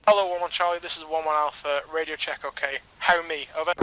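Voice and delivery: clipped radio call, loud and formal; crackly military radio. Shown as a demonstration. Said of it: "So your radio check will be".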